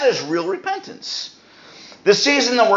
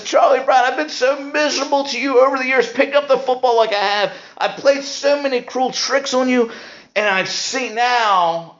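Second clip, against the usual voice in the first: higher mock tearful plea as Lucy; Lucy pleading, crying; 4 semitones higher than usual. Preacher voicing Lucy begging Charlie Brown, in mock tearful pleading. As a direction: play Lucy begging through fake tears. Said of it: "Lucy then starts crying".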